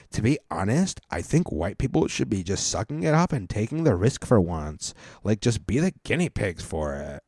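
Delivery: mock-earnest Karen read-out; lightly voiced Karen ally; super Karen ally. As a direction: imitate a white girl in ally mode. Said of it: "super Karen white girl, ally mode".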